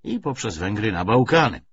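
measured, emphatic political lecture; lightly voiced party orator. Commissar lectures comrades on the coming victory, mildly oratorical. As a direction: stress key words like a lecturer.

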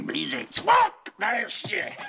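excited. Acted. Boastful climax of his courtship tale.

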